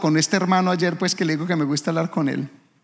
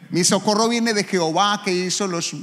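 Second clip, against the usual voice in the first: normal talking voice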